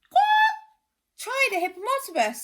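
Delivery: very high, loud squawk, fast; squawking bird. Acted. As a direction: screech the words like a parrot. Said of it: "said another bird".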